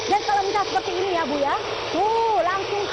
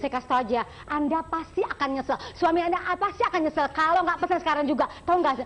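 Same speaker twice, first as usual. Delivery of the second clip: infomercial. Acted. TV shopping host sales pitch.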